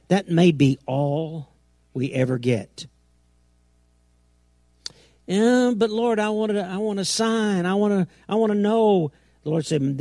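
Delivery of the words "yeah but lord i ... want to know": higher-pitched, mildly pleading objection; put-on higher voice, protesting; mock pleading. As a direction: plead with the Lord like a reluctant believer. Voicing a believer's objection to God.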